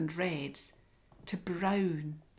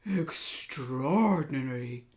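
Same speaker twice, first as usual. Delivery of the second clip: amazed; 3 semitones higher, 6 dB louder, much slower than usual. Acted. Lion amazed.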